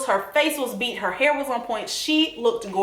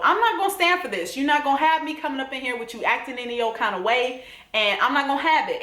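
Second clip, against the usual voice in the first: defiant; 2 semitones higher, faster than usual. Retold or imitated. Fernanda laying down the law to her boyfriend, defiant. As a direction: put your foot down, acting her out. Acting out her standing up to him.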